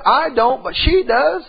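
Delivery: wife puzzled that only her mom remembers; a hint of the wife. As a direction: play the wife, baffled. Wife quoted, voice lifted.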